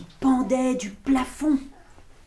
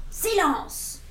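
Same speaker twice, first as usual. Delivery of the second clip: calm command; 7 semitones higher than usual. Acted. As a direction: hush the monsters with one word. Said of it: "fit simplement Max". (ordre calme de Max aux monstres)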